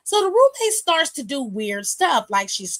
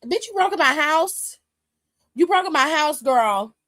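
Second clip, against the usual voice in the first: outraged Bianca; 4 semitones higher than usual. Retold or imitated. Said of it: "Bianca was like".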